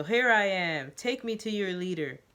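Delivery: hammed-up proclamation; mock scream. Joseph standing with open arms, a hammed-up yell. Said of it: "he screams".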